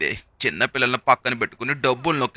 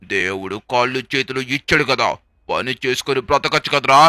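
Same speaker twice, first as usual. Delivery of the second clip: angry shouting; 3 semitones higher, 5 dB louder than usual. Acted. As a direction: yell at him in disgust. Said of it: "అరుస్తున్నాడు". (కోపంగా అరవడం)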